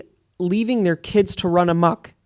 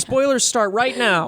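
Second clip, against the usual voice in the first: announcer voice; 5 semitones higher, slower than usual. Pretend. Repeating spoiler warning.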